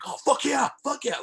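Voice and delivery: over-the-top giddy recognition; starstruck. Retold or imitated. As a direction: squeal it like a starstruck music nerd. Starstruck reaction to names.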